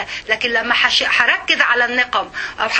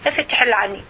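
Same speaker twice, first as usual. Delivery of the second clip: mock excuse-maker; faster than usual. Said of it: "تقولي".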